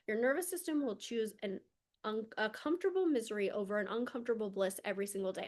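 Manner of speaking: "Your nervous system will choose" rushed, "comfortable misery" tossed off fast; quick first pass. Shown as a demonstration. Coach first stating a key line to clients, quick. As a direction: rattle it off once. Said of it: "I'll say that again".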